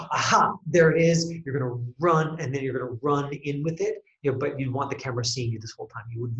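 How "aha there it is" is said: discovery. Shown as a demonstration. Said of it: "and then you are going to".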